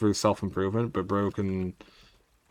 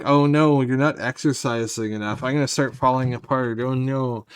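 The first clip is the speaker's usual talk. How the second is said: voicing the body; 3 semitones higher, 4 dB louder than usual. Body nagging its owner about exercise, mock-fretful louder voice. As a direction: whine like your own body is panicking. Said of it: "how the body is just like".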